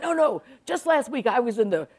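lightly imitated blustering friend; emphatic, a touch grandiose; a hint of an old bear holding forth; Pat Conroy. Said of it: "this is what he's telling me".

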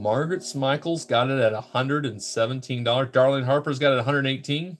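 rhythmic auction bid calling; steady, sing-out auctioneer patter; auctioneer's bid call. Real, not acted. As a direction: call out each new bid to the room. Calls live online auction bids.

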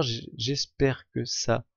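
slow, even robotic delivery. Real, not acted. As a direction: talk like a machine. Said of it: "je viens de parler comme un robot".

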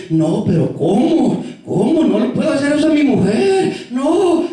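mock disbelief, rising pitch; indignant protest. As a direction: object like an affronted husband. Voices a husband's protest.

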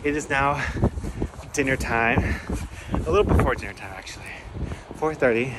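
talking while out of breath; breathless after a steep walk. Real, not acted. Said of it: "If it sounds like I'm out of breath, it's because I am".

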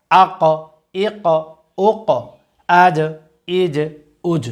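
isolated syllables, each with a bounced end, as in আজ, হাব, আক; one syllable at a time, rebounding on the final sound of হুজ, উক; qalqalah drill. Shown as a demonstration. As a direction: push the last consonant of হিব, ইক, উজ into a short echo. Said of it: "কলকলা অর্থ হচ্ছে ধাক্কা দিয়ে পড়া".

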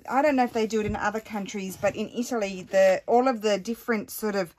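loud, fast, exasperated rant; venting, fed up and out of breath; huffing with annoyance. Real, not acted. To viewers, annoyed at doorbell salesmen, huffing rant. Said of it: "huffing and puffing with annoyance".

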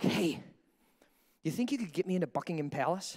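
soft, low, sheepish asking; hesitant request. Acted. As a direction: quietly sound out a favour. Timidly asking a favour of princes.

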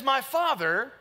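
high, insistent declarations in short separate phrases; declaring, not begging. Shown as a demonstration. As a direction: claim it as a citizen with rights, never pleading. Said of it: "He says, you don't beg".

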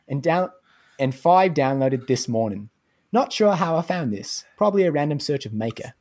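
lightly put-on Aussie accent; Australian accent. Podcast host reading an Aussie listener's review, in a put-on Australian accent. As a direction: read it out in an amateur Australian accent. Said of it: "do them in an Australian accent".

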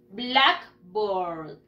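"Blackboard" in two drawn-out parts, A of board silent; practice model. Shown as a demonstration. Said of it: "we are going to practice". ("Blackboard" para practicar, sin la A de board)

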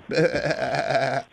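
mocking goat bleat. Goat noise after goat taunt.

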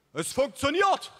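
high, loud, drawn-out jubilant cry; enthusiastic shout. A narrator's reading. Father seeing his invention work, elated high shout. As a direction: cry it out in triumph, stretched and high. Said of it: "rief mein Vater begeistert".

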